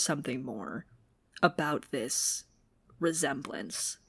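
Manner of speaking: hushed conspiratorial whisper. Real, not acted. Podcaster whispering her theory to cohost. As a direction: lean in and whisper the suspicion.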